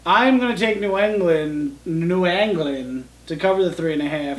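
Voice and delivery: slow put-on New England accent. Real, not acted. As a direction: drawl it like a Boston local. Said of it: "in the New England accent".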